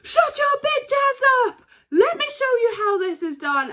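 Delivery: imitating The Rock yelling at his rival; Rock impression. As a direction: ham up the wrestler's trash talk. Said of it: "and he goes".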